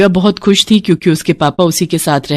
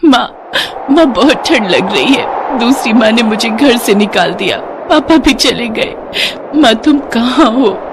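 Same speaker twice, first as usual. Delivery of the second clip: put-on crying girl; 4 semitones higher than usual. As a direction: sob it out, calling for her mother. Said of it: "रोने लगी".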